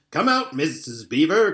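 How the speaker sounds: excited call to the cave; shouting. Acted. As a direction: call out gladly. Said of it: "he was shouting".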